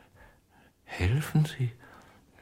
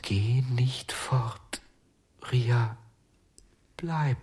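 whisper. Acted. John begs the doll to stay.

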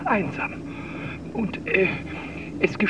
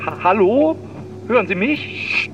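louder stammered hello into the phone; calling out; 4 dB louder than usual. Acted. Old man starting a phone message, loud hello. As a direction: call into the receiver, hesitant.

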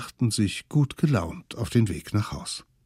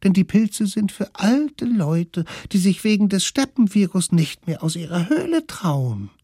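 high, gentle smallest-one's voice; calm him like the littlest one; high coaxing kid voice; soothing little kid; 10 semitones higher, 4 dB louder than usual. Acted. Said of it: "Doch der Allerkleinste beruhigte es".

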